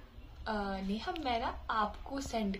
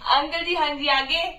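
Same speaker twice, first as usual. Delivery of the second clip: mock-polite; 6 semitones higher, 9 dB louder, slower than usual. Playing along with scammer.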